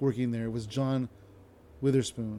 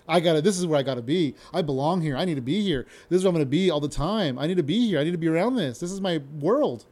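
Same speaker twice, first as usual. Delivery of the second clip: elated resolve; 3 semitones higher, 4 dB louder, faster than usual. Retold or imitated. Euphoric resolve after meeting hero.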